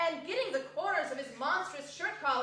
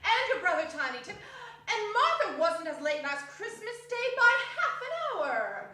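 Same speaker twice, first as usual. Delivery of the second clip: laughing, lightly voiced mother; a hint of a flustered mum; fussing mother; 5 semitones higher than usual. Mrs Cratchit frets to her children, half laughing. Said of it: "said Missus Cratchit".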